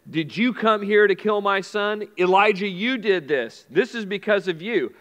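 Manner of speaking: mildly accusing, imitating an upset mother; lightly acted accusation, pointing the finger; retold blaming. Grieving mother blaming Elijah for her son, mock accusing. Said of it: "she was blaming others in that moment".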